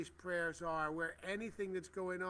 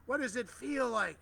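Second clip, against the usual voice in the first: higher and louder, urging the crowd; rousing call; 7 semitones higher, 5 dB louder than usual. Acted. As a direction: lift the question up like a preacher. Asks twice, second far stronger.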